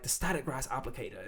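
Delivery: light, casual mock Australian accent; imitating an Australian YouTuber's accent; imitated Australian accent. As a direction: put on an Aussie accent, tossed off a little softly. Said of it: "he says it with this whole accent".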